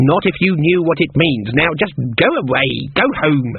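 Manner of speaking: a lightly voiced stern old woman; a hint of gruff kindness from an old witch; old witch softening. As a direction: send them home firmly but not unkindly. Granny dismisses girls kindly.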